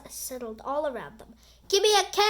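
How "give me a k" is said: high, loud cheer call; cheerleader shout. Acted. Cheerleaders call to the fans in a high, loud cheer. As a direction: belt it out to the crowd. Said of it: "shouted the cheerleaders".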